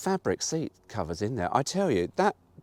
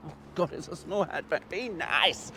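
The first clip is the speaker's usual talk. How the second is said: mock pleading; 6 semitones higher, 4 dB quieter than usual. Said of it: "and you sort of go".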